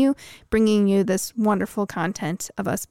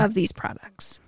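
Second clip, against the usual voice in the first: whispering; 2 semitones lower, 6 dB quieter than usual. Real, not acted. Whispered aside.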